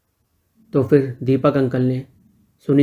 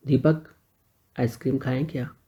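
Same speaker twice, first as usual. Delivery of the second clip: softer, smiling question; 7 dB quieter than usual. A narrator's reading. Sunil invites Deepak for ice cream, smiling softly. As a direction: let a smile into the invite. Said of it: "Sunil ने मुस्कुरा के कहा".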